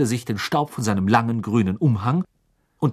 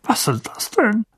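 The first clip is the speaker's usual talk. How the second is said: growling; 10 semitones higher than usual. A narrator's reading. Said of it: "knurrte Onkel Vernon".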